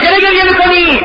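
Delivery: husband's high-pitched challenge; acted astonished question. Husband questions crying wife.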